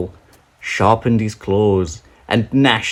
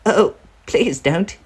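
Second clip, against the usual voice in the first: much higher, small begging voice; pleading little goat; 11 semitones higher than usual. Acted. Littlest goat pleading with the troll, high. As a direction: beg the troll to spare you.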